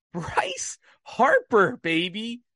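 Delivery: slow, high drawn-out call; stretched hype call. Real, not acted. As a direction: savor the name like an announcer.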